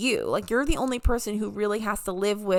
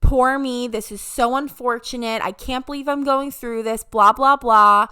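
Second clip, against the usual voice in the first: mock self-pity; 6 dB louder than usual. Mocking her own pity party in a whine. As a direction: play the poor-me victim, then brush it off with blahs. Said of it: "a five-minute pity party".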